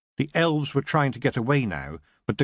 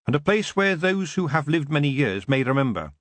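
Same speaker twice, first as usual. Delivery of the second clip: put-on young Tiffany; 3 semitones higher than usual. Tiffany explaining sheds to the elf king, earnest. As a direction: speak up brightly and sincerely.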